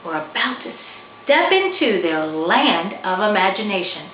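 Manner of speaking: gentle storybook reading voice; story narration. A narrator's reading. Author reading her picture book to listeners, storybook narration. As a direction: read it like bedtime to kids.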